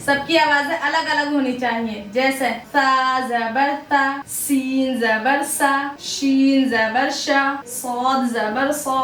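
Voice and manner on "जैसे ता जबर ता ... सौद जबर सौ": each letter spelt out slowly with its vowel; teacher drilling similar letters. Shown as a demonstration. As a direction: sound out ता, सा, शा, सौ slowly. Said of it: "अलग अलग सुनकर देखिए".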